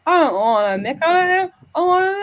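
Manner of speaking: high, loud, slurred mock English drunk; drunk English cousin. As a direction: imitate the tipsy English cousin at the wedding. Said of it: "and he goes".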